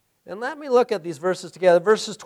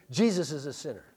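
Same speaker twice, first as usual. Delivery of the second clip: mock accusation; 5 semitones lower, 8 dB quieter, faster than usual. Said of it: "and then very, then he says".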